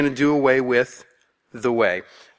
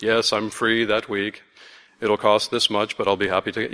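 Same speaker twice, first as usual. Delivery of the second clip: put-on a lightly silly British accent for the hired orator; 5 semitones lower than usual. Pastor voicing the orator Tertullus in a silly British accent. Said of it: "silly British accent on the guy".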